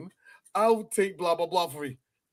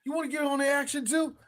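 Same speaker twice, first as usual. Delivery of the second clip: mock Biff taunt; 5 semitones higher, faster than usual. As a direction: taunt him like a smug bully. Acting Biff taunting McFly.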